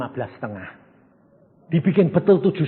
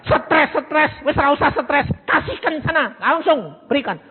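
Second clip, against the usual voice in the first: soothing husband; 10 semitones higher than usual. Acted. Husband voiced on phone.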